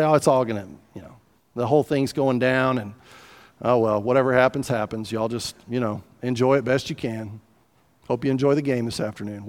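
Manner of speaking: low, resigned fatalist shrug; laissez-faire. Acted. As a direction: toss it off as if nothing matters. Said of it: "it's kinda laissez-faire".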